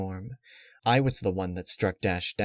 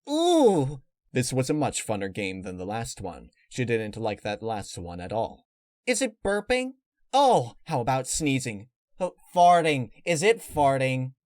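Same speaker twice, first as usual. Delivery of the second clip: Pinkie Pie voice; 3 semitones higher than usual. Acted. Pinkie guessing a game.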